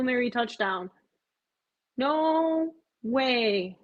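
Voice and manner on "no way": ordinary talk, nothing marked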